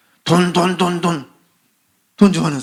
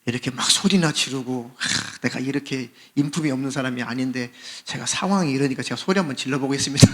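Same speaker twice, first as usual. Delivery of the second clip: mock polite explanation; 4 semitones lower, 3 dB quieter than usual. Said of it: "그렇게 설명하고 소리 지르나요?".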